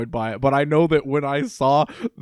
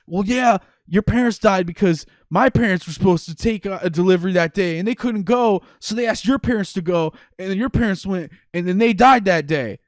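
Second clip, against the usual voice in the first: mock explaining; 4 semitones higher, 4 dB louder than usual. Retold explanation of parents' death.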